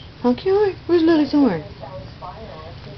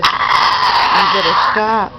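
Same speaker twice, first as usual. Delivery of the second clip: stern warning; 6 dB louder, much slower than usual. Real, not acted. Bird biting her.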